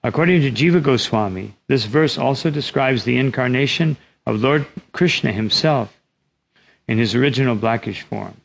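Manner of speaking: measured, emphatic read-aloud; formal reading with weighted key words; scripture commentary reading. Real, not acted. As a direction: read the commentary out carefully to a congregation.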